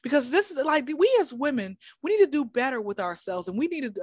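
mock her earnest we-as-women tone; a touch of a preachy young woman; imitating the girl. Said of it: "I feel like that's how she talks".

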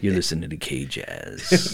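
slow, low, smooth DJ patter; late night radio host voice. Acted. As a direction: purr it like a jazz station DJ. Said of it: "I was trying to do that late night radio host voice".

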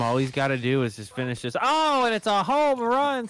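sportscaster building to a shout; play-by-play announcer. Retold or imitated. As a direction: call the game like a TV announcer. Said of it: "the play-by-play guy".

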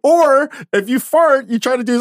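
высоко, громко, со смехом; объяснять давясь смехом; laughing excitedly. Real, not acted.

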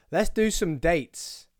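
drawn-out, slow host announcement; big-time host. Pretend. To listeners, announcing show dates like a big star, slow. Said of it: "acting like I'm some sort of big time".

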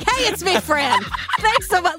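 upbeat, high voicemail greeting; Fran Drescher voicemail. Retold or imitated. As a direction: read it like a chummy celebrity voicemail. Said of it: "sounds like a drag queen doing an impression of Fran Drescher".

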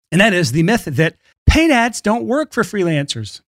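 slowed, deliberately steady read; firm, unwhiny statement. Shown as a demonstration. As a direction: say it without the whine, measured. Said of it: "That was my less whiny voice".

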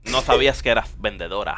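put-on husband's retort in a Spain accent; acento español. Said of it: "el chiste ese con acento español". (marido que responde con acento de España)

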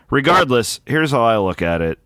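clipping distorted mic; hot, overdriven audio; overmodulated mic. Real, not acted. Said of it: "You sound all overmodulated".

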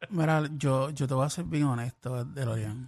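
sultry voice. Acted. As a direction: purr it like a crooner. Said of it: "¿Por qué la voz así?".

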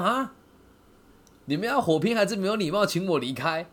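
high, loud incredulous cry of 啊; mock surprise. Speaker to the knife-carrying youths, loud mock surprise. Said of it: "我说".

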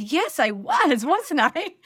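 high, slow laughing yes; laughing as she agrees; laughing admission. Retold or imitated. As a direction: own it with a laugh.

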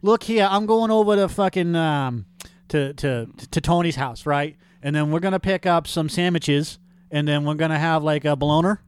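hamming up a Boston guy planning his day; Boston accent. Acted. Friend mocking the Massachusetts accent about picking up sandwiches. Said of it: "the back east accent".

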